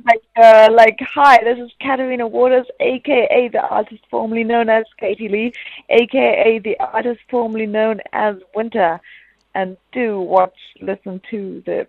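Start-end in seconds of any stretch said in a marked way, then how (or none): 1.1-11.9 wrestling promo. Pretend. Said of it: "can I get a quick liner for the podcast?".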